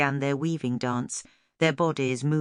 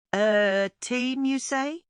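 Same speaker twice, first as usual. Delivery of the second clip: hopeful; 9 semitones higher, slower than usual. A narrator's reading. Stella hopeful question.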